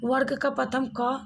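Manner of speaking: वर्ग का प्रथम क whispered without voice; whispered example. Shown as a demonstration. Teacher whispers the first letter of the क group to students. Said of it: "जैसे क".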